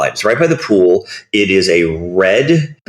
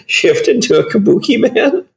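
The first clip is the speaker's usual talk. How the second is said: excited; 14 semitones higher than usual. Real, not acted. Excited pitch jump on name.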